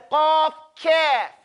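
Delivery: "Qaf" popped at the back, "calf" light at the front; back-front contrast. Shown as a demonstration. Teacher asks students to repeat, contrasting "Qaf, calf". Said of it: "I want you to say".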